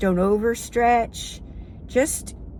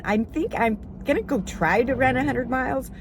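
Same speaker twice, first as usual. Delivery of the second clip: hesitant; 3 semitones higher than usual. Pretend. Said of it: "you're telling your friend".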